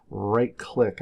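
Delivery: careful, deliberate instruction; slowly said. Shown as a demonstration. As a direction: say it slowly so they catch it. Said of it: "I'll say it slowly".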